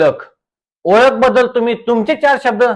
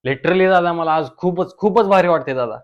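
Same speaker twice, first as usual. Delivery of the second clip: lower, softer voice of a small-town reel star; reel star guest voice; 7 semitones lower, 5 dB quieter than usual. Acted. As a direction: play the smug village reel star. (रील स्टारचा आवाज)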